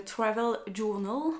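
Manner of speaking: English words in a heavy French accent. Real, not acted. Vlogger naming her travel notebook, French-accented English. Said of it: "avec mon accent anglais de folie".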